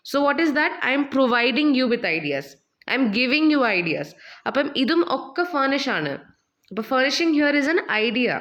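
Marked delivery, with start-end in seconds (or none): 0.9-4.1 slow example sentence. Shown as a demonstration.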